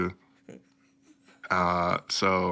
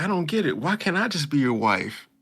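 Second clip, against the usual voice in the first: high pleading girl, lightly voiced; hammed-up anime girl pleading; mock whiny girl voice; 7 semitones higher than usual. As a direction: plead like a lovesick girl, higher. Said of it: "she was like".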